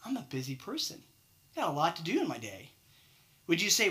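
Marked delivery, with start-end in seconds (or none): 0.1-2.7 softer, offhand employee excuse; mumbled excuse. Retold or imitated. Employee excusing himself to his manager, softly mumbled. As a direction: brush it off quietly like a busy worker. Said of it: "what if they told you".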